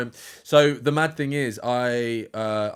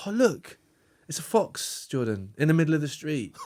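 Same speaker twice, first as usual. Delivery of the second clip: mock excited girlfriend; 3 semitones higher than usual. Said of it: "they went".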